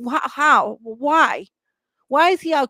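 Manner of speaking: indignant shouting at authorities; angry demand. Real, not acted. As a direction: demand answers, furious at the system. Angry rant about the attacker's release.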